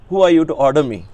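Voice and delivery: a hint of indignant teacher; imitating Swami. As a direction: playfully scold like an affronted guru. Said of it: "In Swami accent, you know, he becomes a child".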